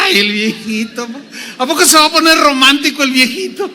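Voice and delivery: put-on high, giggling tease of her old husband; an old wife chuckling at her husband's romance; mocking old Sara laughing. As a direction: laugh through it, poking fun at the old man.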